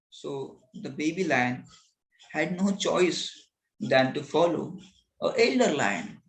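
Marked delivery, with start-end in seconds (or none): none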